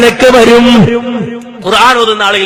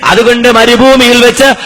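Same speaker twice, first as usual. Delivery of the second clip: full-force preaching. Acted. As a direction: proclaim it to a crowd, stretching the last words. (ഉച്ചത്തിൽ നീട്ടിയുള്ള മതപ്രഭാഷണ ശൈലി)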